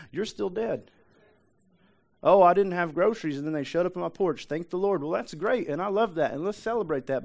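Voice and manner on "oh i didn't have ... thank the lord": higher, louder burst of relief; imitated relieved exclamation; excited testimony. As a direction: act out a thankful churchgoer exclaiming. Voices a grateful congregant.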